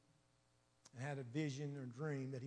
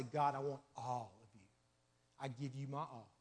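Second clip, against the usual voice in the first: sincere prayer; 3 semitones lower than usual. Shown as a demonstration. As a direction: say it as a real prayer, hushed. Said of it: "It's hard to say".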